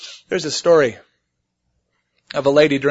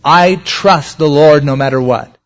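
trusting believer quoted; 6 dB louder, slower than usual. Retold or imitated. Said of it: "and say".

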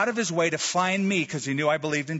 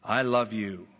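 lower, unhurried declaration of love; tender, sweet; 4 semitones lower than usual. Retold or imitated. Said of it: "said in a tender, sweet voice".

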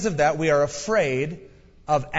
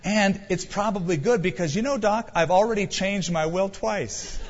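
sly grandfather; 5 semitones higher than usual. Retold or imitated. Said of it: "He goes".

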